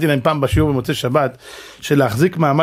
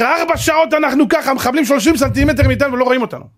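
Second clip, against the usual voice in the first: retold amazement; 8 semitones higher than usual. Survivor marvels at hours unseen.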